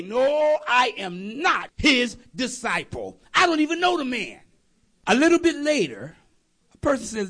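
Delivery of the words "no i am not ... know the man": raised-pitch acted protest; emphatic retold denial; insistent denial. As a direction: play Peter firmly denying it. Peter's second denial, acted out.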